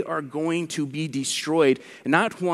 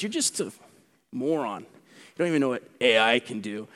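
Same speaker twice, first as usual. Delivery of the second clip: smug skeptic. Retold or imitated. Preacher imitating a skeptic mocking believers, lightly condescending. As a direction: lightly sneer like a scoffer talking down.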